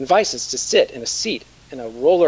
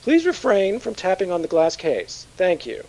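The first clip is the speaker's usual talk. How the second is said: higher, muffled announcer; 5 semitones higher than usual. Acted. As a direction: voice muffled behind glass. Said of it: "Then I hear a muffled voice".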